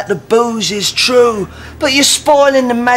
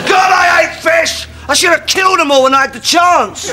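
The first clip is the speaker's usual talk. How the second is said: angry outburst; 6 semitones higher than usual. Acted. Sudden vindictive outburst.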